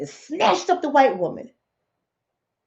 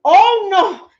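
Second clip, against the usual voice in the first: loud, higher mock-fearful wail; hammed-up fright, drawn out and loud; scared sheep; 5 semitones higher, 6 dB louder, much slower than usual. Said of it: "poor sheep were scared".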